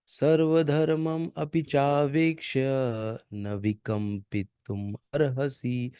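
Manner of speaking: slow chanted Sanskrit line; verse recitation. Shown as a demonstration. Teacher reciting the verse again for pronunciation, slow. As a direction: intone the verse slowly and clearly. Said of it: "ये pronunciation".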